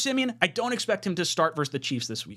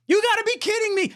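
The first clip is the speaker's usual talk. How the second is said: high, loud disbelief at the numbers; can't believe what he's reading; stunned outburst at the stats; incredulous; 4 dB louder than usual. Real, not acted. Exclaims at shocking stat.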